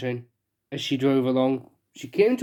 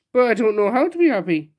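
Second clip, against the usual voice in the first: sniffling; 5 semitones higher, 3 dB louder than usual. Acted. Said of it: "sniffed the king".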